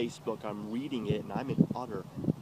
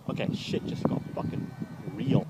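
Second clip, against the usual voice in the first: exclaim; 8 semitones higher than usual. Real, not acted. Outburst at escalation.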